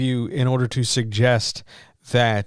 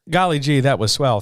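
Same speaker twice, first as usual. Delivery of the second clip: put-on wholesome 1950s kid; 3 semitones higher, 3 dB louder than usual. Sarcastic wholesome exclamation.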